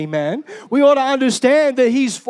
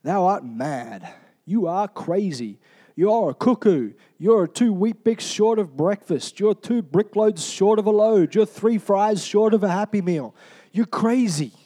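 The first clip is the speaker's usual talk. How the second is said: scoffing Festus; 2 semitones lower than usual. Acted. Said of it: "Festus in verse twenty-four, he said".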